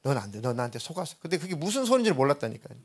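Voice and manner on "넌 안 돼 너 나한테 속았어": mocking spirit. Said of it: "그런 얘기죠".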